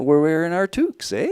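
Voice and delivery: light mock Canadian accent. Shown as a demonstration. Guest showing radio hosts an accent on the spot, light Canadian accent. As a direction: put on a touch of Canadian. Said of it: "I can do a Canadian accent".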